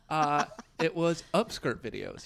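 loud and slow reveal. Real, not acted. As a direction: announce the twist loudly. Reveals shocking news.

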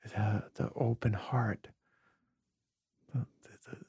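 hushed, emotional near whisper. Real, not acted. Telling the host his tears are strength, hushed near whisper. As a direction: let the words sink to a breath.

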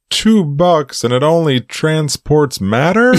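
high-pitched mock outrage at the price; incredulous Homer. Homer balking at a yard sale transporter, incredulous.

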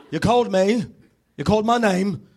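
mock villain voice, ominous and insistent; Bond villain. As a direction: confront them like a spy-film villain. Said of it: "Like a Bond villain".

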